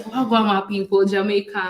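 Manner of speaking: Jamaican greeting, called out; Jamaican accent. Shown as a demonstration. Partner coaches speaker to greet people, Jamaican accent. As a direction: greet the crowd in Jamaican patois.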